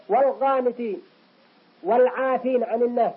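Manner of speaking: sounded l in "والقانتين" and "والعافين"; clear lam. Shown as a demonstration. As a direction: pronounce each l in "والقانتين", "والعافين". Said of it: "ظهرت اللام". (إظهار لام "والقانتين" و"والعافين")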